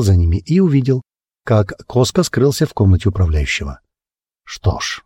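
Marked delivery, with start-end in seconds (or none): 4.4-5.0 low, breathless bitter scoff; the merchant's bitter little scoff at the new steward; bitter snort. Acted. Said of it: "горько хмыкнул Аратой".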